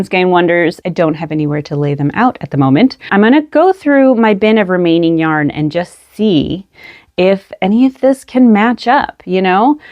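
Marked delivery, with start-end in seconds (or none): none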